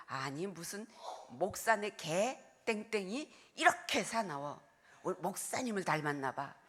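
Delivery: imitated grumbling elderly deaconesses. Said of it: "노인 권사님들이".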